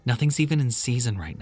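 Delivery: questioning his story; doubtful. Acted. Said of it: "looked at him doubtfully".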